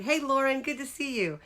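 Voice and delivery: high, loud hello to a viewer; excited shout of welcome; bright greeting. Real, not acted. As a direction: call out a happy welcome. Greeting a viewer joining live.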